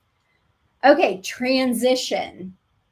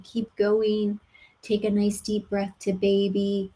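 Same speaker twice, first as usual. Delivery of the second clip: calm and peaceful. Shown as a demonstration. Doula to laboring mother, calm and peaceful. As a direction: coax her gently along. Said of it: "very calm and peaceful".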